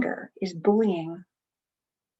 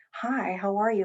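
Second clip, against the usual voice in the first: gentle greeting. Shown as a demonstration. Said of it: "you might say".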